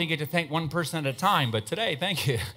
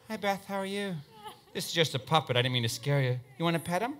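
softer, gentle voice to calm a startled woman; soft reassuring; 6 dB quieter than usual. Acted. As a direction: coax her kindly, hushed. Soothing scared audience member.

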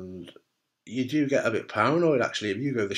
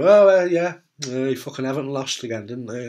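awkward visiting mate; 6 dB louder than usual. Retold or imitated. Mate visiting a sick friend, loud awkward small talk. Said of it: "They're gonna come in and go".

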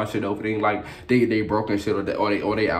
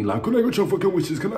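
mock crying; 11 semitones higher than usual. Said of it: "sounding like a motherfucking dying wildebeest".

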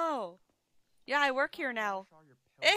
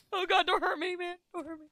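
mock scared; 6 semitones higher than usual. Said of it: "I'm just so scared".

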